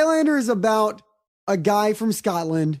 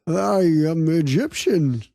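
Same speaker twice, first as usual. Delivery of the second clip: put-on slow, low Egyptian accent; 5 semitones lower, much slower than usual. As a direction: proclaim it like a mystical Egyptian. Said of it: "I love your Egyptian accent".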